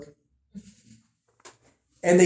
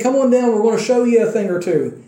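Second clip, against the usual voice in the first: higher, louder mocking challenge; jeering taunt; 5 semitones higher, 4 dB louder than usual. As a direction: taunt them to come down and fight. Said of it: "they're making fun of them".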